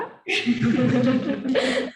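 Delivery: a burst of high, loud laughter; laughing. Real, not acted. Student laughing after saying their name in Malay. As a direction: laugh out at the attempt.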